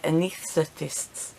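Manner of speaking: "anesthetists" said slowly, feeling through the syllables; struggling to pronounce. Real, not acted. Patient tripping on a medical word, struggling to pronounce "anesthetists". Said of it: "can't say it".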